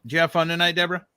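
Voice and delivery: calling across the room to Deborah. Real, not acted. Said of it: "repeats the question louder".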